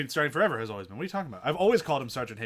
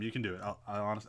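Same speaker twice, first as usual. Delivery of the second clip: talking over a sip of coffee; mumbling between sips of coffee; while drinking coffee; 5 semitones lower, 9 dB quieter than usual. Real, not acted. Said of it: "I can't talk while drinking coffee".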